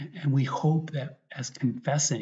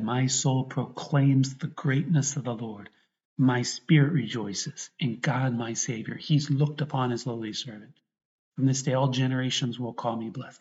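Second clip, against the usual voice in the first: measured proclamation with emphatic key words; earnest, deliberate recitation of a sacred text; scripture reading; 3 dB louder than usual. Real, not acted. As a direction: read the gospel out to a congregation. Reads the Gospel canticle aloud.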